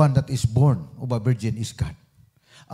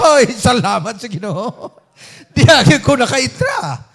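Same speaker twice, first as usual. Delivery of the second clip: louder, slowed talk through real laughter; laughing; 7 semitones higher, 6 dB louder than usual. Real, not acted. Preacher laughs with the congregation over Jesus' words, laughing.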